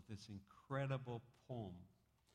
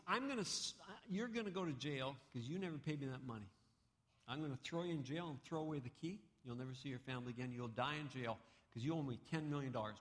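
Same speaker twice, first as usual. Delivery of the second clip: raised, threatening creditor voice; stern creditor; 3 semitones higher, faster than usual. Acted. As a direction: lay down the threat like a harsh lender. Creditor threatens debtor in parable.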